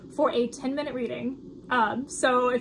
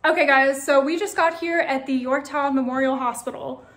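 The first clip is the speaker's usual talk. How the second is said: loud, way too cheerful greeting; 5 dB louder than usual. Real, not acted. Host greeting viewers at the hospital, too cheerful. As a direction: open brightly, as a cheery vlog intro. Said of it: "That sounded so cheerful".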